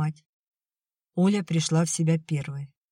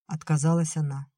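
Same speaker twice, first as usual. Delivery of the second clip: ordinary delivery, nothing marked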